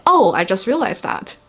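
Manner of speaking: falling "Oh" of realization; sudden realization. Acted. Teacher illustrating tone four, acted mild realization. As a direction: let "Oh" drop as it dawns on you. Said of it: "like when you were saying".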